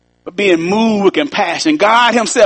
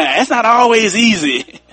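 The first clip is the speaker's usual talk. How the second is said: slower with a laugh. Shown as a demonstration. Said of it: "Say it one more time".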